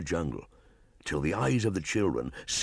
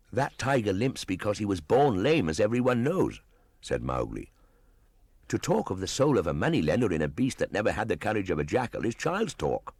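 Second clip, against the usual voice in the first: put-on higher boyish voice, rushing the scorn; a boy mocking the elders' tales; quicker, higher Mowgli, dismissive; scornful Mowgli; 5 semitones higher than usual. Mowgli scoffs at Buldoo.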